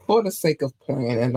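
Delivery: chewing gum while talking; talking around a piece of gum; mouth full. Real, not acted. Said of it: "I do have gum in my mouth".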